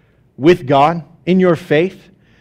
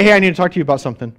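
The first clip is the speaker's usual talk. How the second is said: ominous opener; much faster than usual. Retold or imitated. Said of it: "what you're saying when you communicate".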